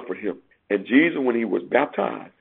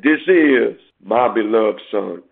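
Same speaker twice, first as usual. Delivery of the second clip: a touch slower, lightly solemn quote; lightly voiced heavenly voice; 2 semitones lower, slower than usual. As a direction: read the Father's words with a hint of solemnity. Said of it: "his voice came out of the cloud, which said".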